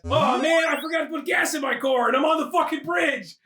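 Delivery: hammed-up frustrated outburst; mock exasperated shout. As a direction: wail it in mock dismay. Acting out stranded driver.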